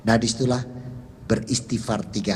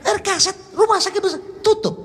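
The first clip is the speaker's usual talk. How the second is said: much higher and louder, slowed right down; loud, slow repeat; 4 dB louder than usual. Retold or imitated. Son repeating to his father, loud and slow. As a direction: spell it out loud for a hard-of-hearing father. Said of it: "saya bilangnya".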